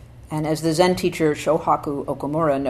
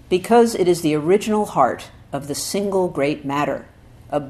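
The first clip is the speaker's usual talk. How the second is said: louder, emphatic recitation, rising at the start; solemn scripture reading; 4 dB louder than usual. Acted. Teacher reading Dogen's essay to students, emphatic. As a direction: proclaim the old text with weight.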